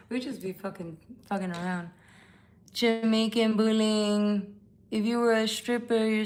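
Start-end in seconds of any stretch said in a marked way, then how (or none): 2.7-4.5 slow read-out. Shown as a demonstration. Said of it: "reading the chat name aloud".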